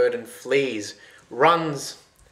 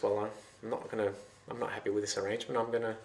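scheming; 7 dB quieter, faster than usual. A narrator's reading. Snooty's secret scheming thought.

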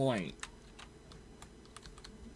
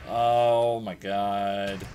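slow, drawn-out exasperation; exasperated groan; 4 semitones lower, 6 dB louder, much slower than usual. Real, not acted. Gamer getting hammered, slow exasperated groan. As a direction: stretch it out in disbelief.

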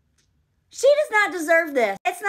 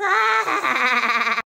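mock laugh; 4 dB louder than usual. Acting April's scorn at Frank.

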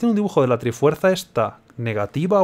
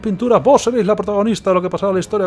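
haughty villain; 5 semitones higher than usual. Acted. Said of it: "reading Yuga's dialogue".

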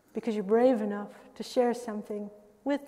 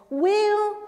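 mock adoring praise; 3 semitones higher, slower than usual. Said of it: "as if you were describing your romantic partner".

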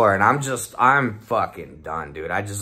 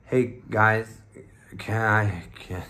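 halting, slurred attempt to ask; mock garbled words, breaking off before passing out; imitating dazed collapse; slower than usual. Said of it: "I guess I went".

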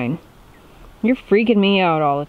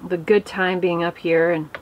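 prayer. Real, not acted. Grace before dinner.

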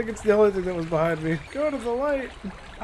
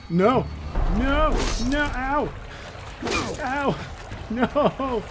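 scared yelling; 5 semitones higher, much slower than usual. Real, not acted. Being caught in horror game.

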